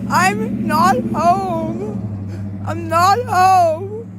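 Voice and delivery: very slow, tearful words; real tearful plea. Real, not acted. Freezing streamer tearfully tells chat she is not home. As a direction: stretch it out, crying. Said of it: "It's not acting".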